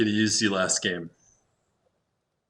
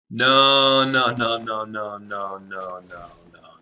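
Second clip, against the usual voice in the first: loud no that fades to a mutter; protesting no, fading; 4 dB louder, slower than usual. Real, not acted. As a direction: start with a loud protest and trail off. Reacting to the opponent's card.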